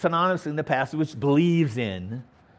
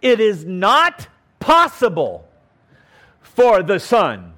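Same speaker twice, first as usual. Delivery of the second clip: slow, firm and louder; slow emphasis; 3 semitones higher, 5 dB louder, slower than usual. Shown as a demonstration. Preacher stressing the promise, slow and louder. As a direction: lean on every word. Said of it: "emphasizing that this is absolutely so".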